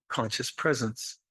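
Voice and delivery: quietly savouring the phrase; soft repeat. Shown as a demonstration. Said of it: "I like to use conscious presence".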